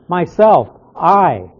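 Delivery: "Myself" and "I" as two separate weighted words; emphatic pronouns. Shown as a demonstration. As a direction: stress "I" after a break. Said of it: "Again, it's emphatic".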